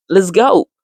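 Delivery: recalled burst of hopeful enthusiasm; enthusiastic. Retold or imitated. Woman cheered by her friends' love stories, enthusiastic. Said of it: "cet enthousiasme".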